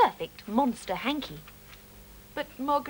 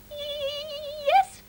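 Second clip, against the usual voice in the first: high, mildly shaky mouse voice; quavered. Acted. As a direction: answer timidly from the hole. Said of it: "quavered Mister Mouse".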